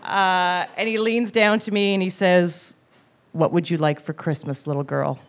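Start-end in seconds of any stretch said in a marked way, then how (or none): 3.3-5.2 put-on low, soft old-man murmur; lowered, gentle grown-up voice; mall Santa. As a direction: imitate Santa leaning down to a child. Mall Santa leans down, asks.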